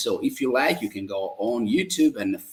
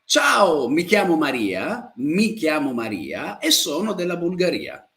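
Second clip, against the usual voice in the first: repeat-after-me drill. Shown as a demonstration. Teacher inviting students to repeat after her. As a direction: lead the class through it line by line. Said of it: "Ripeti con me".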